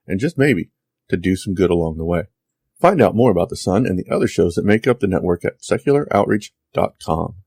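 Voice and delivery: bright outro announcement; announcer read. Acted.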